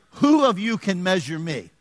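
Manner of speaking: slow, emphatic challenge; voice of God. Acted. Pastor voicing God's question to the congregation, emphatic challenge. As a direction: put force on the opening WHO. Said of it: "God is saying".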